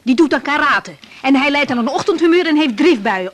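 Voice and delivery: loud, firm threatening; angry threat. Acted. Housewife threatening the salesman with her husband, loud. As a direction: threaten him with your husband.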